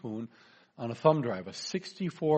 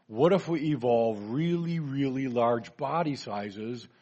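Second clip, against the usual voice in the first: dinosaur voice; slower than usual. Acted. Dinosaur pitches idea in joke.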